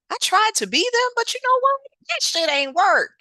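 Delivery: worked up, emphatic reveal. Real, not acted. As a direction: belt out the confession with a laugh. Punchline about imitating singers.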